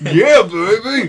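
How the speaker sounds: mock grandpa. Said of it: "That does not sound like my grandparents".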